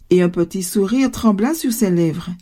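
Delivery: ordinary delivery, nothing marked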